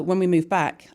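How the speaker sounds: usual speaking voice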